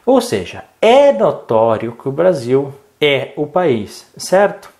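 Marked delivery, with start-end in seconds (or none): 0.8-4.1 both "é" stretched out and stressed. Shown as a demonstration. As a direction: lean slowly on each open "é". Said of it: "O acento no E". (ênfase alongada em cada "é")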